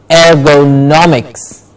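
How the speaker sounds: "Ergonomics" slowly, er-go-NOM-iks; slow model of "Ergonomics", beat on "nom"; stress before -ics. Shown as a demonstration. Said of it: "the syllable before ix is stressed".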